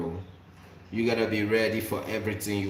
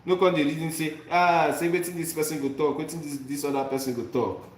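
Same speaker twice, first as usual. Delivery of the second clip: higher-pitched Nigerian pidgin; animated Nigerian pidgin, voicing a worrier's doubts; 5 semitones higher than usual. Shown as a demonstration. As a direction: exhort them in lively Nigerian pidgin. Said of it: "that is the Nigerian pidgin way of expressing".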